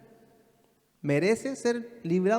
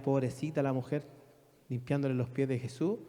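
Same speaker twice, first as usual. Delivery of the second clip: mocking pity; 4 semitones lower, 4 dB quieter than usual. Simon mocks the woman.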